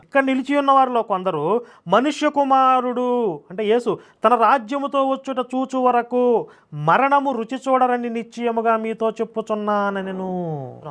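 slow monotone chant with long vowels; intoned Bible reading. Acted. Preacher reading the prophecy of the kingdom, solemnly intoned. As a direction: stretch the verse out, dropping away at the end. Reads scripture aloud.

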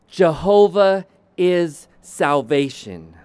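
slow, weighty declarations with long pauses; measured, deliberate pulpit delivery; emphatic preaching. Real, not acted. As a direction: proclaim each name slowly and let it land. Slow, weighty declarations of God's names.

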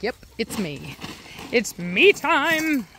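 slow, drawn-out smug dog voice; voicing the dog. Owner voicing her dominant dog, slow and smug. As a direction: stretch "me time" like a proud dog. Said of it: "He's like".

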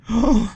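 sharp, high gasp; surprised gasp. Real, not acted. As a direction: gasp at a sudden find. Checks a corpse for loot.

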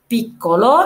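"بيكولو" with a held double k; doubled hard k. Shown as a demonstration. Teacher showing learners a double c, doubled hard k. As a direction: hold the k in "بيكولو" before releasing it. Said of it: "لو التانية هتتنطق كا".

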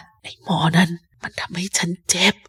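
hushed and drained; weak whisper. Acted. Captain whispers to Jim from bed, hushed and drained. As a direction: barely push the words out. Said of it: "แล้วเขาก็กระซิบกับผมว่า".

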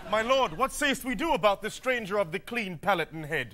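mock-theatrical Shakespeare delivery; Shakespearean. Guards debate the stranger in mock Shakespearean style. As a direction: declaim it like a stage lord.

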